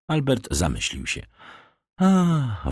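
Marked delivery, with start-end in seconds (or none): 2.0-2.7 high sighed "ah"; wordless, high-pitched acted sigh. A narrator's reading. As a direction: sigh it out after a moment's thought. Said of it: "westchnął po chwili".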